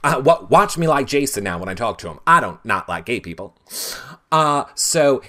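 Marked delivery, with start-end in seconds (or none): 0.0-3.6 imitating Jeff. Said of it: "Jeff was like".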